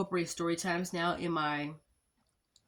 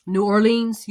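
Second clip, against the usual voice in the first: loud, higher burst of enthusiasm; excited; 4 semitones higher, 12 dB louder, slower than usual. Real, not acted. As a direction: shout the name out with delight. Naming her favorite season.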